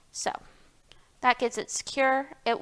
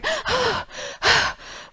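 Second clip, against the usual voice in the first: tired sigh; 13 semitones higher than usual. Real, not acted. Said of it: "I got so fast there at the end".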